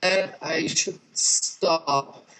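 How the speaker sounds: glitchy, garbled call audio; choppy, distorted phone line; robot voice. Real, not acted. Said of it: "you just have robot voice".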